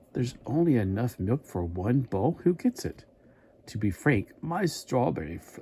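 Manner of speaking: put-on slow, half-hearted stab at a monster accent; reading the cereal-box comic in a mock monster voice; attempted Frankenberry accent. A hint of a monster accent, slow and unsure. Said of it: "I can't do his accent".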